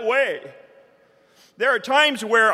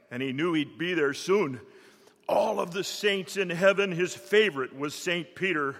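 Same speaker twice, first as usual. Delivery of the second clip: lower, rhythmic poem recitation; cowboy poetry; 3 semitones lower than usual. Acted.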